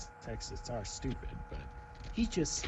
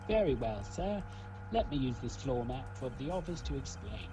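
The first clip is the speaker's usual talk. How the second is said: lightly voiced British commoner; a touch of British commoner, pitch lifting on sir; British commoner accent. Detective explaining to the court, light British commoner accent. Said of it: "I used a British commoner".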